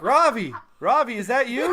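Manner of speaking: imitating mom. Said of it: "my mom would be like".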